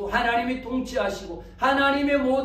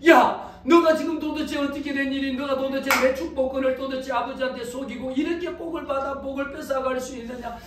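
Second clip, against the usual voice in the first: raised, higher voice of indignant disbelief; acted indignant confrontation, pitched up; outraged reproach; 4 semitones higher than usual. Elder brother confronting the one who stole his blessing, outraged.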